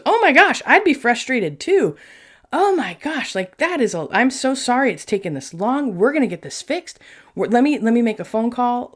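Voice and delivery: an eager helpful rep gushing apology; eager sympathetic rep. Retold or imitated. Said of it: "And he goes".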